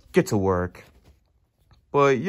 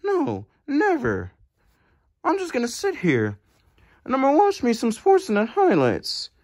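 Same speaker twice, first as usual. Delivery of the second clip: higher, stubborn put-on voice; goofy character refusing to leave, voiced higher; goofy refusal; 6 semitones higher than usual.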